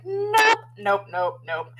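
high first nope, then quick repeats; retold chorus of refusal; mock flat refusal. Everyone rejecting the boss's offer, mock refusal.

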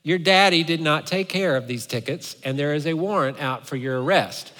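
mildly stern, unamused officer; lightly voiced officer laying down the law; retold reprimand with a touch of sternness; not amused. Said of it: "not amused at all".

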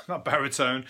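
chuckling correction; laughing. Real, not acted.

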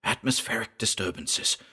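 hushed, under the breath; under his breath. A narrator's reading. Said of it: "said under his breath".

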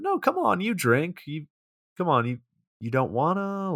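high-pitched mock pleading, easing down; acted high "come on" coaxing; retold coaxing plea. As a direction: wheedle like a rejected suitor, playfully imitated. Retold coaxing after being turned down.

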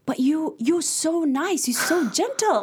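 high, sweet mock old lady voice; hammed-up sugary old woman; imitating the old lady. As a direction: flatter her in a lifted old lady voice. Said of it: "she keep interrupting me".

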